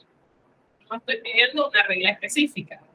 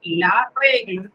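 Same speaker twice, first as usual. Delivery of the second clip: "La regla" said slowly and deliberately; slow model word; 3 semitones lower, much slower than usual. Shown as a demonstration. Teacher models the Spanish phrase slowly for students. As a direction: stretch out "La regla". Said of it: "No es lo mismo decir".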